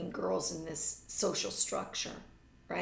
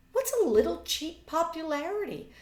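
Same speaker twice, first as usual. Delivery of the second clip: annoyed; 10 semitones higher, 8 dB louder than usual. Acted.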